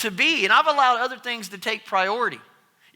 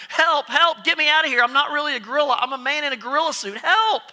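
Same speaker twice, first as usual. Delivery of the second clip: screaming for help; 4 semitones higher than usual. Acted. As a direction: shout it up high like a trapped man. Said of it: "screaming and yelling".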